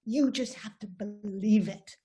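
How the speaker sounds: put-on a light Moroccan accent, lifted and encouraging; mother in a hint of a Moroccan accent; thick Moroccan accent. Moroccan mother urging her kids, light Moroccan accent. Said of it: "in this thick Moroccan accent".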